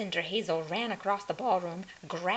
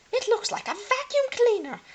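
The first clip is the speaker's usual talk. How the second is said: high, loud scornful witch voice; mocking sister; 8 dB louder than usual. A narrator's reading. Hildy mocks Cinder Hazel's vacuum, high scornful voice. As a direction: sneer at the vacuum.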